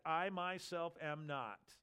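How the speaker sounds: "I myself am not" said as a slow, emphatic denial. Shown as a demonstration. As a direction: stress on "I myself am not", drawn out slowly. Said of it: "There's an emphatic".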